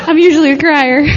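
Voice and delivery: amused self-teasing; laughing. Real, not acted. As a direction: admit it through laughter. Laughing at own confession.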